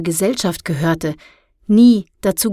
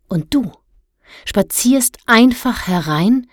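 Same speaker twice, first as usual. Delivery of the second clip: rising, louder indignant telling-off; stern scolding; 2 semitones higher, 4 dB louder than usual. Acted. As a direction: scold the boy for meddling. Kalavesi scolds Luan for hacking.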